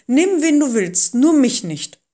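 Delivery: loud, high, pleading refusal; crying out. A narrator's reading. Moses begging God to send someone else, crying out. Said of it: "rief Mose".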